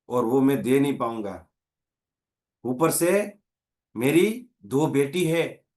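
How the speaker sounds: tearful man. Retold or imitated. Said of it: "वो आदमी रोते रोते बोलता है".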